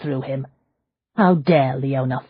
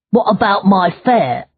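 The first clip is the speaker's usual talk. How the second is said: coachman grumbling; 5 semitones higher, 6 dB louder than usual. A narrator's reading. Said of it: "the coachman grumbled".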